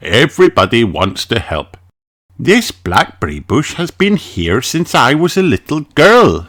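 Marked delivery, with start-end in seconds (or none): 2.4-6.5 Mummy Pig voice. A narrator's reading. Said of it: "says Mummy Pig".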